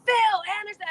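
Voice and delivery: high-pitched re-enacted call; retold calling out. Daughter trying to get her father's attention, retold call. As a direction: call his name, pitched well up.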